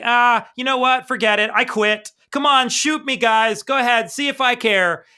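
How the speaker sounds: defeated Zot. Retold or imitated. Zot giving up to the baddies, defiant and fed up. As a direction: dare them to shoot.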